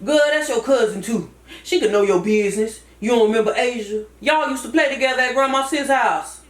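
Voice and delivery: Cousin Fat. Acted. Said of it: "Cousin Fat".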